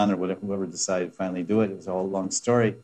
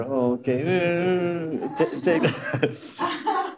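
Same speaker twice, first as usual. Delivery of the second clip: reluctant giving; 7 semitones higher, much slower than usual. Pretend. Reluctant donor answering request.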